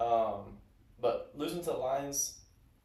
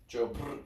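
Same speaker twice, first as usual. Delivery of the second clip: dying sound. Pretend. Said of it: "I was trying to make a dying sound".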